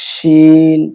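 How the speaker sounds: "শিন" with a full hushing sh; sounded sh. Shown as a demonstration. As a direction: draw out "শিন" with an audible sh. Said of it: "এই শিনটা শব্দ হবে".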